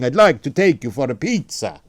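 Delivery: put-on Italian accent; light mock Italian accent for a quote. Host testing whether it offends, mock Italian accent. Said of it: "an Italian accent on the radio".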